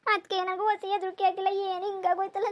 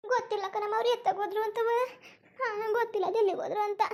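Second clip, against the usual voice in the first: crying; 3 semitones higher than usual. Acted. Daughter upset over broken earring.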